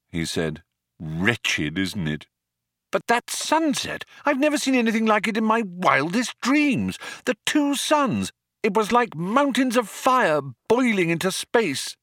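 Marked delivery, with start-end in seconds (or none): 1.0-2.3 low, glum robot voice; lightly lowered weary machine voice; gloomy robot. Acted. Depressed robot Marvin replies. 2.9-11.9 high breathless marvelling; awestruck Arthur. Acted.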